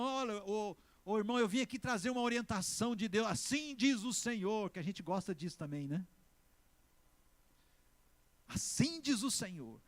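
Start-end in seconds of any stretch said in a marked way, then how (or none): 0.0-4.7 raised, projected prophet voice, slowing at the end; mock prophetic proclamation. Mimics a solemn prophet delivering word. 8.5-9.8 slow, raised proclamation, lightly hammed-up; mock prophetic proclamation. Repeats the mock prophetic formula.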